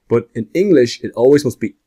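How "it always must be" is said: usual speaking voice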